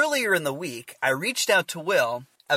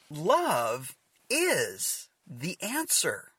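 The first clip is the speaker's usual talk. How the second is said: sincere; 4 dB quieter, much slower than usual. Real, not acted. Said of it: "the reality is".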